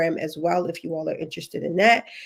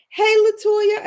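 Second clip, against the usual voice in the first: much higher, bright hello; excited greeting; 13 semitones higher, 5 dB louder, slower than usual. Real, not acted. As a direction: call out a viewer's name warmly. Greeting a viewer live.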